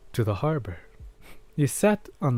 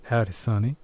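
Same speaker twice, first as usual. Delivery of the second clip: cowboy voice; faster than usual. Pretend. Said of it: "my old, uh, cowboy voice".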